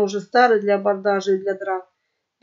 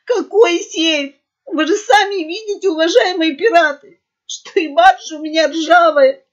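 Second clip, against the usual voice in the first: high, loud tearful sobbing plea; 6 semitones higher, 5 dB louder than usual. A narrator's reading. Merchant begging the pirates for mercy, sobbing loudly. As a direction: weep while begging for pity. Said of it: "зарыдал он уже во весь голос".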